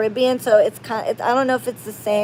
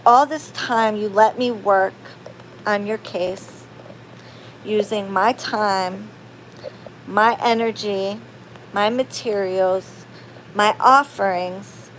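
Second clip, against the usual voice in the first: retold hurt anger; 3 dB quieter than usual. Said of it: "I'm done".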